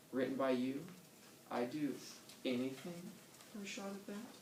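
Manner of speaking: lightly voiced starlet pitching herself.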